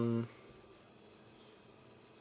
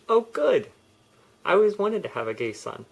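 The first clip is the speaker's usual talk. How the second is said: higher, louder delighted mother; delighted mom; 8 semitones higher, 6 dB louder than usual. Retold or imitated. New mom hearing he is gay, delighted higher exclamation. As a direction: chirp it like a thrilled mom. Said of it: "She said".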